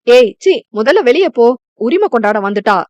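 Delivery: sharp, annoyed brush-off to the intruder; fed up, tell her to get out; a younger sister's irritated order to leave. Acted. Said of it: "Mitra கடுப்பாகி கூற".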